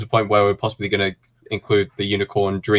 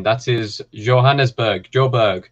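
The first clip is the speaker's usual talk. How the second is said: put-on half-hearted South African accent on Johannesburg; a hint of South African; slower than usual. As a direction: dip into a South African accent, only halfway. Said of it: "That's a terrible accent thing".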